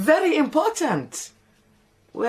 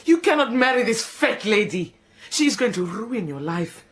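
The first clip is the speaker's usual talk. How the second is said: scolding shout. Acted. Maid to Ra scolding him about the marriage. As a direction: berate him for his folly. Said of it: "Do not shout like that".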